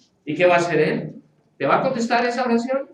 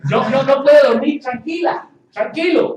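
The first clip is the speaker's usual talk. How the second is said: mock worried believer; 5 semitones higher, 7 dB louder than usual. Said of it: "algunos dicen".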